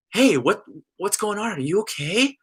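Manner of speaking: concerned mom voice, lifted in pitch; motherly concern. Retold or imitated. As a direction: imitate a mother softly asking after someone. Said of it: "the most perfectly motherly way".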